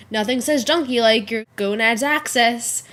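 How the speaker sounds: a lightly voiced, puzzled Booth; quoting Booth. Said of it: "He goes".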